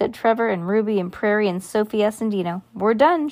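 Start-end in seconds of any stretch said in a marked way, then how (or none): 2.7-3.3 higher, slightly louder announcement; said loudly. A narrator's reading. Bean closes the case for the listening children, loudly. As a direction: announce it to the whole group. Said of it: "she said loudly".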